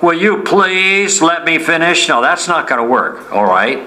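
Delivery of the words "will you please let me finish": a touch gruff, higher and slow, demanding; mean and gruff. Shown as a demonstration. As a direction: make it sound like an impatient demand. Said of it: "not being really mean and gruff".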